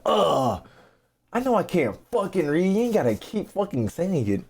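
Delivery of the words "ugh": mock groan. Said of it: "I'm hearing you like".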